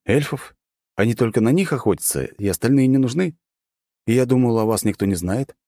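put-on high, puzzled young woman; surprised girl voice. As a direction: ask in disbelief. Dragonkin girl asks in surprise. (высокий удивлённый девичий голос)

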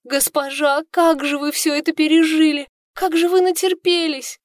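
высокие жалостливые причитания; запричитать над госпожой; причитая. Acted. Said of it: "продолжая причитать". (служанка жалеет госпожу, причитая высоко и громко)

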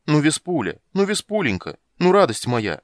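loud, high coaxing call up to her; pleading shout. Acted. Poet shouting pleas up to his angry lover. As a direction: shout sweet names to calm her. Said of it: "крикнул мужчина в шапочке с пером".

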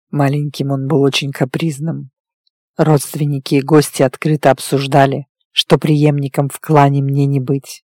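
low, even male character voice; werewolf recounting his past. Acted. Werewolf telling his lover of his childhood, restrained low voice. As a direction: tell a painful history with restraint.

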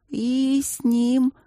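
slow, high, dreamy confession; swooning confidence; dreamy confiding. A narrator's reading. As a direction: share it sweetly, eyes rolling. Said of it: "тихо поделилась Винин".

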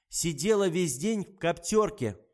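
doctor angrily scolding the nurse; angry. Acted. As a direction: tear into her for losing a patient. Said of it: "гневался врач".

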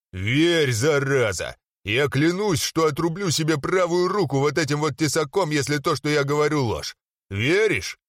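menacing, rough and insistent; menacing threat. Acted. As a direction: force an oath out of him. Threatening oath, Horde recruiter.

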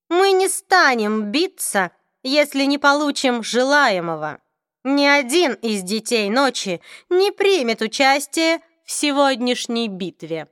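drawn-out, aloof vampire lord; cold vampire voice. Acted. Raphael states terms.

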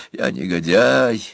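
usual speaking voice

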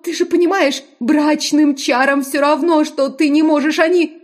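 high, frightened woman's voice; pleading young woman. A narrator's reading.

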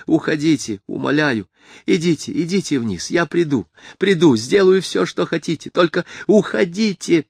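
man holding a door, begging visitor to go; tormented pleading. A narrator's reading. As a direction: plead in anguish, almost crying. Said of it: "В его голосе была такая мука".

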